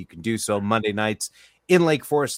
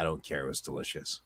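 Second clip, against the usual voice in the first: whispered; 6 semitones lower, 11 dB quieter than usual. Real, not acted. Defends drink after teasing.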